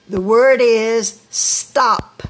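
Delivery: put-on teacher stretching out the word for children, slow; slow, drawn out. Shown as a demonstration. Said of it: "Let me say it in slow motion".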